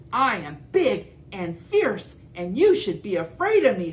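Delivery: loom over her; fierce dinosaur. Acted. T. rex boasts.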